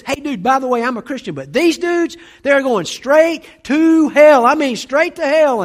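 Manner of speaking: high, booming dude outburst; loud retold tirade, building to a drawn-out peak; really loud. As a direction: blurt it out loudly, drawing out "straight to hell". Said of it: "he goes really loud".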